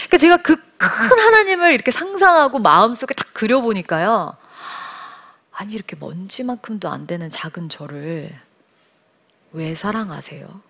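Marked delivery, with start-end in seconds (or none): 5.5-10.6 soft, humble question to God; hushed prayer. Retold or imitated. Speaker softly asks God why he loves her. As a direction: murmur it in awe, barely voiced.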